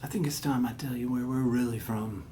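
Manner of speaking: low, eerie whispered confession; attempted alien-father voice. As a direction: whisper it low and soft, like a grave secret. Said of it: "I'm gonna try to do this".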